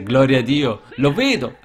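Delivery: loud, glad cry of praise; joyful exclamation. Retold or imitated. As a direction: shout it out in joy. Prete esclama gioioso. (il prete grida di gioia: Gloria a Dio)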